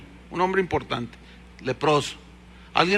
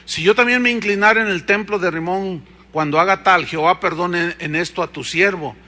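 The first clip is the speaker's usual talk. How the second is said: scripture reading; 3 dB louder than usual. Acted. Reads verse loudly.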